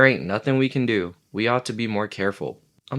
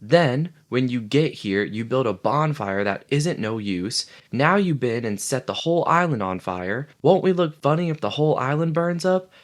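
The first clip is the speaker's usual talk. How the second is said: tirade; 4 semitones higher than usual. Acted. Piggy rants at the laughing boys, high and indignant. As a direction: scold them for acting like kids. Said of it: "the tirade".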